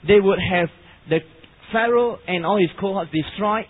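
loud, deliberate sermon delivery with weighty pauses; emphatic preaching. Real, not acted. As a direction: preach it forcefully, phrase by phrase.

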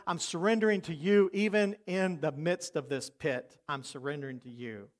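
dropping to a near-hushed, surrendered prayer; quiet surrender to God, trailing off. Acted. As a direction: pray it softly, fading away. Acted prayer in the pit.

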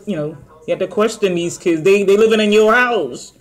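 chewing while talking; speaking between bites; mouth full of fries. Real, not acted. Seen 0: Feeds fries into mouth, then chews with cheeks full while talking.

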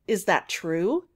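slow question, a touch of eagerness; eager. Acted. Kit hears he is no coward, eagerly. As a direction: ask with mild hopeful eagerness. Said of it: "asked Kit eagerly".

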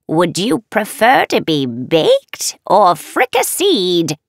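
slow, menacing witch tease. Acted. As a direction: savor it like a hungry witch.

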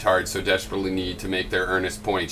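hammed-up scolding in comic paraphrase; mock indignation. Vlogger parodies a commenter's version of his video, mock indignant. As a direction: declaim it like a mock-offended moraliser. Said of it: "this is a comedy paraphrase of my video".

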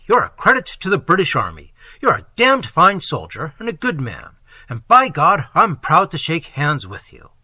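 loud, gruff exclamation of admiration; hearty booming praise. Acted. Old man in black cloak loudly praises the wounded soldier. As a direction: bellow it like a proud old officer.

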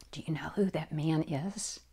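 soft unvoiced whisper. A narrator's reading. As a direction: lean in and whisper it. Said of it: "her friend whispered".

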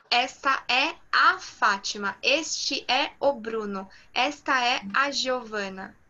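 "a" and "o" picked out before each name; deliberate example sentences stressing "a", "o"; stress on the articles. Shown as a demonstration. Teacher showing Portuguese to a student, stressed articles. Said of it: "Em português, eu falo".

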